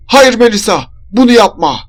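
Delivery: high, loud protest; shouting. A narrator's reading. Mother begging her daughter not to go, shouting. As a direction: shout to stop someone. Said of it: "diye bağırıyordu".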